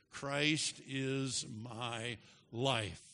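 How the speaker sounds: slow, word-by-word, landing on "life"; measured recitation with a weighted "life"; stress on last word. Shown as a demonstration. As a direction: spread the words out and set "life" apart. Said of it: "emphasizing the last word together".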